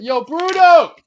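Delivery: loud shout across a queue; calling out. Retold or imitated. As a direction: call out to him from the back. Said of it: "So I'm like".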